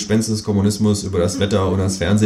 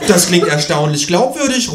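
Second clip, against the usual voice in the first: raised, higher ghost voice; ghost calling out; 9 semitones higher, 4 dB louder than usual. A narrator's reading. Ghost reacting to the explanation, calling out high. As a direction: call it out as the ghost, pitched up. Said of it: "ruft das Gespenst".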